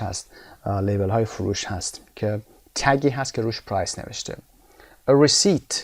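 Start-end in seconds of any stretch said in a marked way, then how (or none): 5.1-5.7 "receipt" said ree-SEET with the p left silent; teacher modelling the silent p in "receipt". Shown as a demonstration. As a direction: say "receipt" without any p sound. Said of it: "تلفظش پی تلفظ نمیشه".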